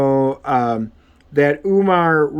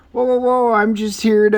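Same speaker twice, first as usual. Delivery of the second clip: higher-pitched, placating "whoa"; alarmed protest; 7 semitones higher than usual. Retold or imitated. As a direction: play a startled intruder backing off. Intruder calming an angry homeowner.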